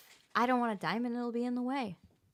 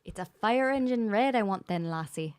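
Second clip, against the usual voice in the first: put-on lightly done Scottish pirate accent; slow, loose Scottish pirate accent; 3 dB louder than usual. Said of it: "Oh, do the pirate accent".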